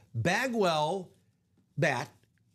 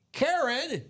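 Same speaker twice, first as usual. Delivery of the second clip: calling out; 9 semitones higher than usual. Real, not acted. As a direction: announce the winner's name. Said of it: "uh, Karen".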